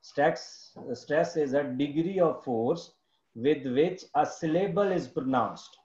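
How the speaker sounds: slow, word-by-word dictation of a definition. Shown as a demonstration. Teacher dictating the stress definition to the class, slowly. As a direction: spell it out slowly so students can write.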